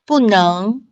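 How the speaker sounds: 不能 with 不 falling, 能 rising; bù néng demo. Shown as a demonstration. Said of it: "能二声".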